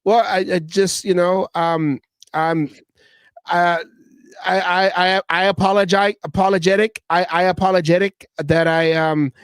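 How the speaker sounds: lightly voiced fumbling apology, halting and unsure; mocking stammered apology. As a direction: stumble through it like a nervous player caught out. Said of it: "that's what he sounds like".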